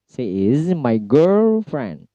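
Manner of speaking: put-on "girlfriend" with GIRL drawn out on a high tone. Shown as a demonstration. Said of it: "high tone atau nada tinggi yang ditempatkan pada kata girl". (nada tinggi pada "girl" dalam "girlfriend")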